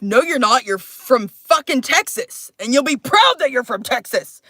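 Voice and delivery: mildly forceful retold rebuke; imitated indignant father. Father correcting child about being from Texas, mildly indignant. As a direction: lightly play a stern father, leaning on the words. Acting out angry biological father.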